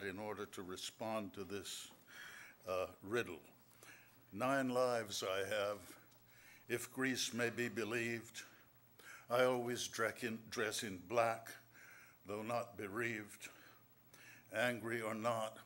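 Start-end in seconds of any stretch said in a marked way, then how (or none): 4.3-15.6 poem reading. Acted. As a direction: read each line like a riddle to savour. Reads his riddle poem.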